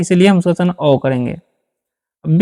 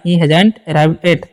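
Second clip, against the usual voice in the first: slow dictation; 3 semitones lower, much slower than usual. Shown as a demonstration. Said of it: "जैसे में".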